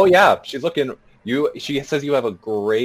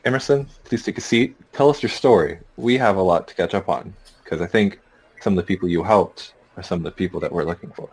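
in-character address; 5 semitones lower, 5 dB louder than usual. Acted. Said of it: "so I'll be like".

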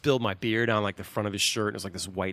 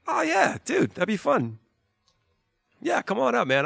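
laid-back invite; 13 semitones higher than usual. Retold or imitated. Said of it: "he's just like".

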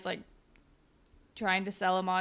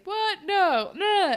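high, sharp, louder protest; mock-startled Riley; startled denial; 9 semitones higher, 6 dB louder, much slower than usual. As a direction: deny it in a startled rush. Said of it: "he's like".

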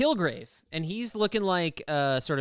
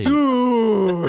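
stunned shout; 5 semitones higher, 11 dB louder than usual. Real, not acted.

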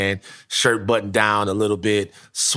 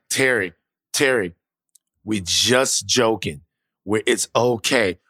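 calming mom; 2 semitones lower, slower than usual. Retold or imitated. Mom calms armed dad.

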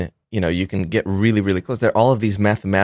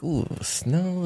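delighted; 9 semitones higher, 7 dB quieter than usual. Retold or imitated. Voicing the bear delighted by snow.

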